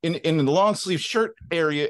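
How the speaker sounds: lightly voiced wife correcting him; imitating scolding wife.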